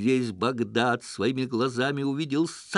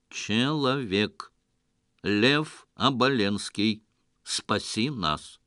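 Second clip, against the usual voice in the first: металлический голос; slower than usual. Acted. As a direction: drone it out like a machine. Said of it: "Ровный металлический голос". (ровный металлический голос)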